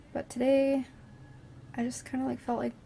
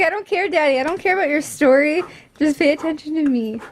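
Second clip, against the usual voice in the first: put-on baby daughter voice; 4 semitones higher, 5 dB louder than usual. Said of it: "She's like".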